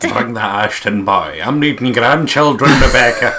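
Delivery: lightly voiced pushy mother; a hint of a mother nagging for grandchildren; mock broody mum. Oh, she's broody.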